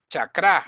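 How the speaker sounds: Chakra stressed on the final a; end-stressed Chakra; correct pronunciation. Shown as a demonstration. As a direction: say Chakra as cha-KRA. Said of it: "chakra instead of chakra".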